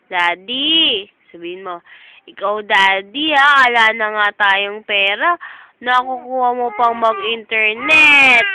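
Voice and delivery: put-on scolding in baby voice. Mother voices baby scolding daddy.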